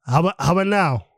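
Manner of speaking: glitchy robotic call audio. Real, not acted. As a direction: sound like a robot on a bad line. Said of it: "You sound like a robot".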